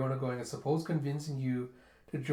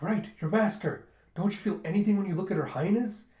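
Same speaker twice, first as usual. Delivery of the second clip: higher, louder, pressing question; urgent insistence; 6 semitones higher, 6 dB louder than usual. Acted. Dragon pressing Zeno about her highness, urgently insistent. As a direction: press him loudly for an answer.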